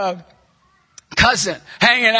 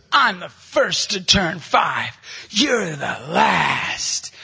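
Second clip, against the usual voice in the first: put-on slow kid taunt; 4 semitones lower, much slower than usual. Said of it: "He goes".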